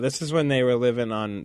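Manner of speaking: yawning mid-sentence. Real, not acted. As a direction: talk through a yawn. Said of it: "but you were yawning".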